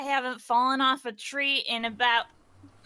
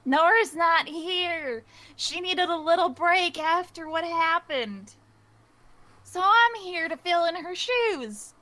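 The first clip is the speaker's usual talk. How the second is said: Mila in character; 4 semitones higher than usual. Acted. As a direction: calmly explain she is filling in. Mila revealing Nora's absence.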